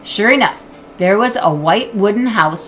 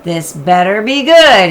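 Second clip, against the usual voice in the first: grudging groan; 7 dB louder than usual. Acted. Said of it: "Jack groaned".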